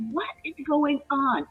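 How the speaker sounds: high-pitched exasperated protest; retelling an upset, bewildered outburst; retold tearful exasperation. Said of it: "I've got tears rolling down my eyes because I'm like".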